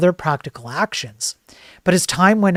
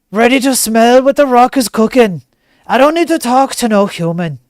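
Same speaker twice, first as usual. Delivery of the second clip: higher, louder swaggering bro; hammed-up Hugh boasting to the world; cocky bro voice; 5 semitones higher, 5 dB louder than usual. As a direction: brag like a know-it-all buddy. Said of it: "He's like".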